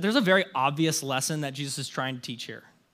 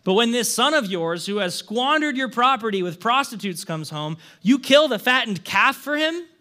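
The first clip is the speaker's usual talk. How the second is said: mildly angry, aggrieved complaint read aloud; understated resentment of a slighted son; indignant older brother; 2 semitones higher than usual. Acted. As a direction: air a grievance, stressing key words, building to an indignant question. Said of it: "The older brother became angry at this".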